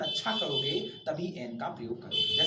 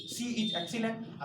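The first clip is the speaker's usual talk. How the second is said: slow dictation; 3 semitones higher, 4 dB quieter, much slower than usual. Shown as a demonstration. Teacher dictating example sentence.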